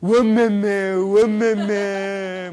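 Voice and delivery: high, loud, long-drawn wail of delight; mother's exclamation. Retold or imitated. Son imitates his mother's pet exclamation, drawn-out and loud. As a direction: imitate a country mother's stretched-out cry. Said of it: "저희 엄마는 주로 의성어나 의태어를".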